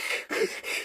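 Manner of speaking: imitated asthmatic gasping; acted struggle to breathe. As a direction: wheeze weakly instead of answering. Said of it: "I'm like".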